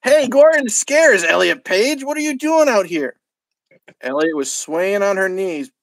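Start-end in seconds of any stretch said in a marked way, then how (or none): 0.0-3.2 raised, louder call from the van; half-hearted driver voice, barely put on; not doing the voice. Van driver shouting at Elliot, a louder call. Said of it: "I'm not doing the voice".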